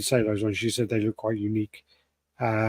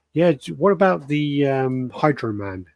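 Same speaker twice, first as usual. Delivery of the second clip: drawn-out called question, lightly imitated; shouted suggestion; 4 semitones higher, 3 dB louder, slower than usual. Missus suggesting a bust while googling, lightly shouted out. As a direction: imitate calling out a suggestion, slowly, a bit raised. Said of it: "she's just shouting out, going".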